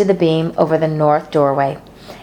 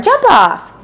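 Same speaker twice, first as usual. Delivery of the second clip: demanding; 13 semitones higher, 4 dB louder than usual. A narrator's reading. Fern ordering.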